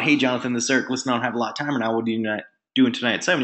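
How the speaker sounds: fast, run-together phone pitch; in a hurry. Retold or imitated. Beginner caller inviting Jonathan, rushed. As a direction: race through the scripted invite. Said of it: "be in a hurry".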